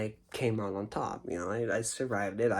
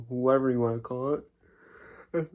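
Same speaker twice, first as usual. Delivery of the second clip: talking through a yawn; words stretched by a yawn; slower than usual. Real, not acted. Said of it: "I need to stop yawning".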